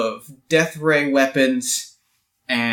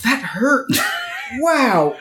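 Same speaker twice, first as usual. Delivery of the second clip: muttering to himself; 14 semitones higher, slower than usual. Acted. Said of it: "kind of muttering to myself".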